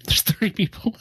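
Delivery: whispered aside. Real, not acted. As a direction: say it under your breath. Aside during vote count.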